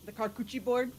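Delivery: "charcuterie" misread as "car-coochie"; mispronounced charcuterie. Retold or imitated. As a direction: say "charcuterie" with a hard K and "coochie" ending. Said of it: "she couldn't say the word".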